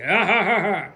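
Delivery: put-on polite laugh; imitated hollow ha-ha. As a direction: fake a brush-it-off laugh. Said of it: "you laugh it off like".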